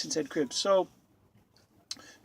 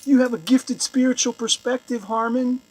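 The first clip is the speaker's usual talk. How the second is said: raised, louder sarcastic flattery; mock awe; 5 semitones higher, 6 dB louder than usual. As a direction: praise him with hammed-up reverence. Mocking acted flattery of Harmon.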